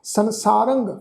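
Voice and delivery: ਸੰਸਾਰੰਗ ending in nasal rang. Shown as a demonstration. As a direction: nasalise the last syllable of ਸੰਸਾਰੰਗ. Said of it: "ਨਾਸਿਕ ਉਚਾਰਨ ਹੋਏਗਾ ਜੀ".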